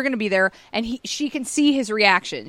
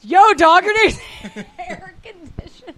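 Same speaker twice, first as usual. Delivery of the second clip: dude voice; 6 semitones higher, 4 dB louder than usual. Retold or imitated. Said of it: "they're like".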